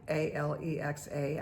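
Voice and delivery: A L E X A said as five separate letters; spelled letter by letter. Real, not acted. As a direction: spell out A L E X A instead of saying the name. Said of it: "I don't wanna say her name".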